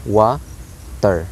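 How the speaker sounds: "water" slowly split, TER falling low; slow "water", accented WA then unaccented TER; stress on first syllable. Shown as a demonstration. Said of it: "while ter is low or unaccented".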